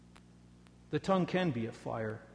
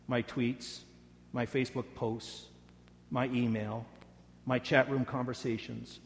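earnest, measured prayer voice; spoken prayer. Acted. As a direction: pray it humbly for everyone. Leads the congregation in prayer.

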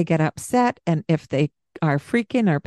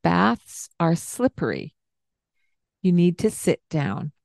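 gentle. Shown as a demonstration. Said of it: "you could say it with a gentler tone".

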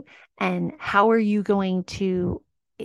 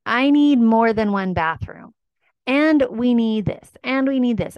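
higher, louder indignant client; hammed-up outrage at one bathroom; mock exasperated complaint; 5 semitones higher, 4 dB louder than usual. Client scolding realtor, mock exasperated and louder. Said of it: "And you're like".

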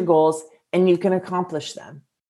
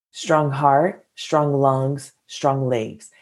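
mantra; 4 semitones lower, much slower than usual. Shown as a demonstration. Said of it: "That is literally a mantra I say to myself".

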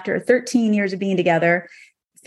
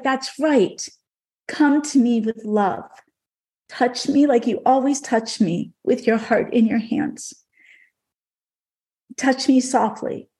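gentle horse voice; 3 semitones higher than usual. Retold or imitated. Dream horse Legend telling her to groom him with love, lightly voiced gentle guide.

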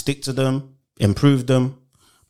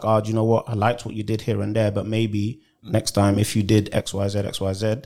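lower, measured director giving notes; constructive feedback; 4 semitones lower than usual. Acted. Director giving an actor constructive feedback, calm and low. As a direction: talk them gently through the notes. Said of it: "A constructive feedback".

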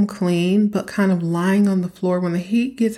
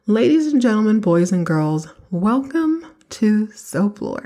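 mock show announcer; 3 semitones higher than usual. Host welcoming listeners to the podcast, as a playful announcer. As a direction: hype up the podcast opening like a host.

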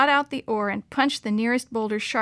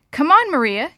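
raised, higher calling voice; 5 semitones higher, 8 dB louder than usual. A narrator's reading. Girl calls her friend to the raft, calling out. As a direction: call a friend over. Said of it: "Dee Dee called".

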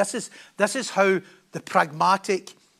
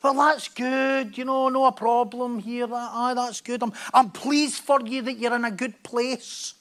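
mock polite approval; slower than usual. Mocking the lukewarm Christian reply.

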